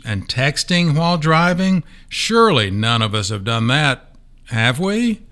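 knowing, sarcastic tease. Acted. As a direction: pretend innocence with a wink. Sarcastic rhetorical questions.

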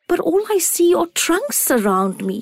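put-on high, small childlike acorn; a tiny wondering acorn. A narrator's reading.

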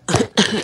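sudden sputtering cough; choking cough. Real, not acted. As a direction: cough on a drink gone down wrong.

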